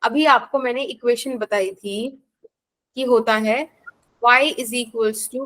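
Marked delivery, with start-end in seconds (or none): 4.2-5.4 slow dictation. Shown as a demonstration. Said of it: "teacher dictates an equation slowly".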